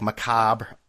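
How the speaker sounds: macabre ending on the b, silent -re; unsure pronunciation. Shown as a demonstration. Host unsure of the word, macabre as muh-KAHB. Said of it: "how do you pronounce that word?".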